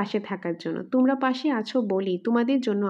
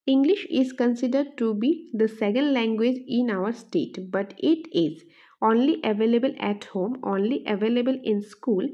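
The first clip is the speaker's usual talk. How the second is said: measured, deliberate quiz reading; slow option reading; much slower than usual. Shown as a demonstration. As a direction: read each option out slowly. Reads quiz question and options.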